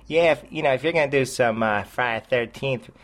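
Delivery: put-on halting, half-hearted stab at a Boston accent; attempted Boston accent. Podcaster mimicking a rival critic, badly faked Boston accent. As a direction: try a Boston accent and fail at it. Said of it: "I can't even do it".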